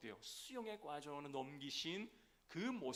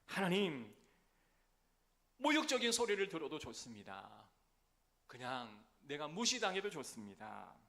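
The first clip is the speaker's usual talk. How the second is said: impassioned prayer; 3 semitones higher, 5 dB louder than usual. Acted. Preacher voices David's prayer.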